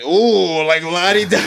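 mocking rich folks calling a private car; mock fancy lords. Friend mocking partygoers who order an Uber, hammed-up posh voice. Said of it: "you know, like, fucking fancy lords".

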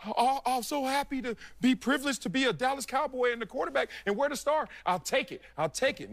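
a hint of a giddy, overly grateful player; mock grateful player. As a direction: play the pushover thanking them for scraps. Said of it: "if I was sitting there like".

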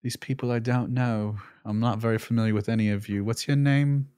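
lightly put-on droid accent, softened; C-3PO accent. Droid saying farewell to friends, lightly imitated C-3PO accent. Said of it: "This is the accent that C three P O has".

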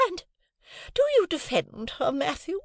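shrill, indignant lady of the house; high, offended and superior; haughty high lady. A narrator's reading. Missus Pocket indignant.

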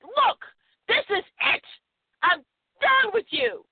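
high, bold, emphatic burst; with gusto. Shown as a demonstration. Host showing how to say it with gusto, high and bold. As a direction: say it like you're finally done. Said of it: "say it with gusto".

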